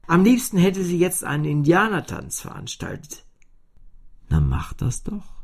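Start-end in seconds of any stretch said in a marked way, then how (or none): 4.3-5.3 tief geflüstert, ermunternd; flüstere ihr aufmunternd zu; flüsternde Cellostimme. A narrator's reading. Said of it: "sekundierte das Cello". (tiefes, ermunterndes Flüstern)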